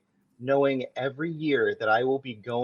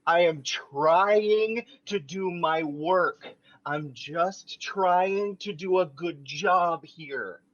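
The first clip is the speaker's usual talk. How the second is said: slow, raised shout over noise; 3 semitones higher, slower than usual. Acted. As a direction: shout to be heard. Schmidt shouting over protesting women.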